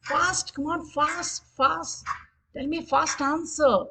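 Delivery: game-host countdown urgency; urging on. Pretend. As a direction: press the players for a fast answer. Quiz timer running, hurrying players.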